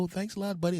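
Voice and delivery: high, soft put-on voice; light high-voiced thanks; grateful stranger. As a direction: pitch it way up as a thankful passer-by. Imagined stranger thanking him.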